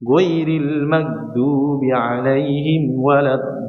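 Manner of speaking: slow chant with a thin gh; wrong thin recitation. Shown as a demonstration. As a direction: chant without thickening. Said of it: "sama sekali nggak ditebalkan".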